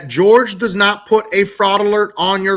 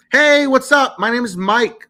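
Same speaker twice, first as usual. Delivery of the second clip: friendly greeting; 4 semitones higher than usual. Shown as a demonstration. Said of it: "very friendly".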